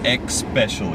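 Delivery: "especially" with an added k, ek-SPESH-uh-lee; "especially" opened with a clear EKS; imitated mispronunciation. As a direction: say "especially" as "ekspecially", quoting someone's slip. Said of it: "You said especially".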